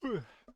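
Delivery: short tired yawn. Real, not acted. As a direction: let out a brief yawn. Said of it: "Sorry I'm yawning so much".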